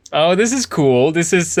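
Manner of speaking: oh wow, this is cool; excited discovery. Real, not acted. Discovering code on the board.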